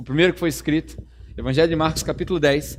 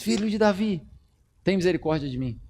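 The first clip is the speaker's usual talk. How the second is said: quiet plea; 5 dB quieter than usual. Acted. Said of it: "chamava Jesus".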